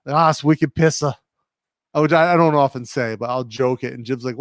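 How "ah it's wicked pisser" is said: lightly put-on New England slang accent; old school Rhode Island accent. Shown as a demonstration. Streamer joking with slang Jib questions, Rhode Island accent. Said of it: "the old school accent from Rhode Island".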